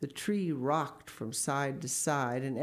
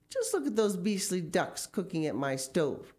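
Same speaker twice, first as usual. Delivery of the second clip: higher-pitched outraged exclamation; scandalised housewife, voice raised in pitch; indignant cry; 4 semitones higher than usual. Acted. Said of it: "cried Missus Gregg".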